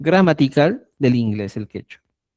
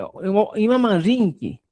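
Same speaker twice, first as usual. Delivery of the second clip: slow model phrase; 4 semitones higher than usual. Shown as a demonstration. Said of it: "¿A qué vas?".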